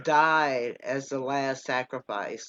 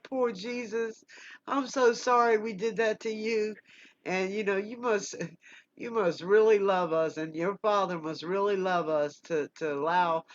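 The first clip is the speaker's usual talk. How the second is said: soft, higher-pitched retold plea to Jesus; tender apology, as if close to tears; hushed and high, lightly imitating a weepy prayer; retold tearful prayer; 4 semitones higher, 4 dB quieter than usual. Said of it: "I cry for".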